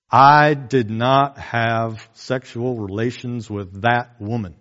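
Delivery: slow, overly formal denial; a touch of Clinton's stiff press-conference voice; lightly imitated formal president; Bill Clinton. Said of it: "real formal in his language".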